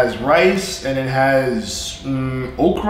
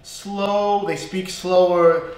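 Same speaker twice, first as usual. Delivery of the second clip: slow Southern drawl; 4 semitones higher, much slower than usual. Shown as a demonstration. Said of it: "is a drawl".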